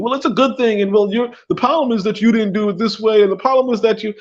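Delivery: mocking advice-givers. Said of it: "everybody's telling you".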